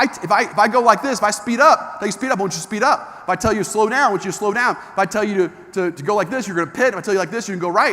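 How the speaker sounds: retold instructor instructions. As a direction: fire up the rookie driver. Retells instructor's pep talk.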